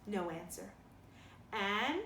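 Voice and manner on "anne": stern call. Acted. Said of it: "with greater severity".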